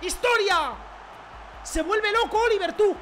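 very high, loud screaming celebration; ecstatic yelling. Real, not acted. Gamer scoring a wild goal, screaming in joy.

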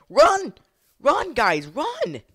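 high, loud yell to run; high-pitched urgent holler; urgent shout. Real, not acted. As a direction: shout a warning at the group. Urging characters to flee in game.

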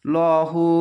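লহু with a heavy, rounded "law"; thick L. Shown as a demonstration. Teacher reading the word by the rule, thick ল. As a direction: make the first sound of লহু full and dark. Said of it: "ল উচ্চারণ হবে".

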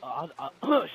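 startled yell; panicked shout while playing. Real, not acted. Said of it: "I was yelling".

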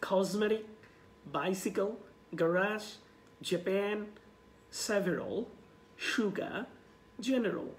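each word alone with pauses, "Cosmetic" with a z; repeat-after-me drill. Shown as a demonstration. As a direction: model for a class, "sugar" as SHU-ga. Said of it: "repeat with me".

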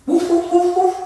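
quick high little woofs; rapid high-pitched dog imitation; dog barks. Shown as a demonstration. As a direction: yap like a small dog.

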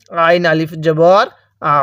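slow spelling, আ squeezed from mid-throat and held; throaty ain. Shown as a demonstration. Teacher shows the ain sound, pressed in the throat. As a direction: press the throat slightly on a long আ. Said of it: "গলার মাঝখানে একটু চাপ দিলে".

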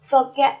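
"Forget" with the weight on "get"; light "For", stressed "get" in "Forget"; second-syllable stress. Shown as a demonstration. Teacher repeating a word for students, stress on "get" in "Forget". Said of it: "nhấn âm tiết số hai".

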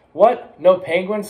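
startled, rising disbelief; shocked disbelief. A narrator's reading. Splat learns penguins are unavailable.

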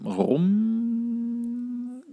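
normal talking voice

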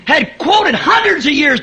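building sermon fervor; full-force preaching. Acted. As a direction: preach it out to the congregation.

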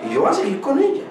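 a hint of a pleading youth; imitating young man. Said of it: "Me dijo".

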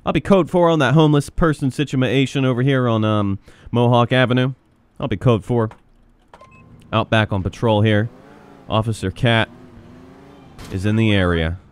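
understated officer on the radio; police radio report. Pretend. Cat officer reporting back on patrol, radio manner. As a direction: report in with a lightly acted dispatch manner.

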